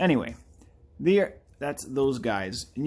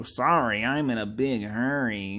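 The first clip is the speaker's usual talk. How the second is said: lightly voiced game passer-by, drawn-out ending; mock canned game apology; slower than usual. Passer-by brushing off the player, lightly hammed-up apology. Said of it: "that guy would go".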